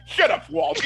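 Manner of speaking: high, dismissive shout-down; hammed-up exasperated silencing; mock angry yell. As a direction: imitate someone cutting him off angrily. Retold group silencing Walt.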